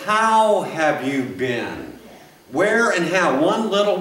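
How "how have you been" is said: slow, gentle how have you been; a slow caring greeting in place of the accusing one; kind greeting. Shown as a demonstration. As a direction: ask it with real care, slowly. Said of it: "would it be better".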